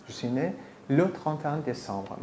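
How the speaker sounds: slow, careful French sentence; slow example sentence. Shown as a demonstration. Teacher slowly reads her exact birthday in French. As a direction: read it slowly for a learner. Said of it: "example sentence".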